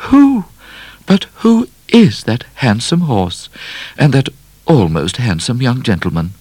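squealing, breathless admiration from the ladies; gushing society ladies. A narrator's reading. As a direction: gasp it out like fine ladies craning from carriages.

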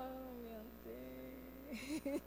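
barely voiced, slow sigh of shame; drawn-out remorseful breath; guilty hush; hushed mock regret. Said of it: "Aí depois no final".

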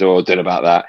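hint of a big booming Scottish manager, modest; lightly imitating a Scottish legend's modest reply. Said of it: "in his big booming Scottish voice".

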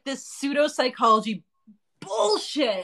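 high cracking outraged cry; mock outrage. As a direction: rant like it's unbearable. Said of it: "and I was like".

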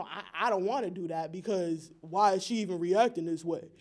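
a lightly voiced dismissive guy, mocking; mock the man who won't meet her halfway; put-on voice. Panelist mocking a dismissive boyfriend, lightly put-on voice. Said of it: "why you had to put that, that voice on?".

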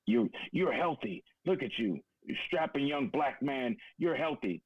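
lightly hammed-up old man jeering; heckling old man. Vet imitating the old man jeering at him, mildly sneering. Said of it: "He's still going".

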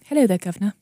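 mock British, second attempt after Australian; playful cockney-style British greeting; British accent. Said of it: "hear people talking British".

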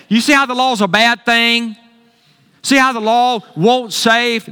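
lightly voiced naive believer; misunderstanding believer. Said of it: "you could misunderstand it".

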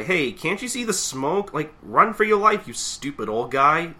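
imitated impatient yelling. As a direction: shout a warning in exasperation. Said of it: "just keeps yelling at this guy".

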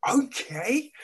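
unvoiced high breathy okay; whispering. Imitated listener reaction.

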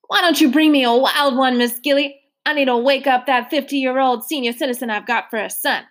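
lightly voiced courtly old man; a hint of a polite elderly gentleman. Mister Randolph politely refusing seconds, lightly voiced old man. Randolph asks for wild tie.

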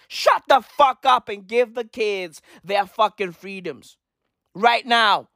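usual speaking voice

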